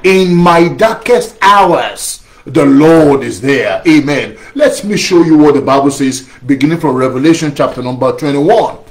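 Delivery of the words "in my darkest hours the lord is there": slow, weighty repeat, stress on hours; slow call-and-response. Shown as a demonstration. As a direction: say it once more slowly with the congregation. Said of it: "Say it one more time".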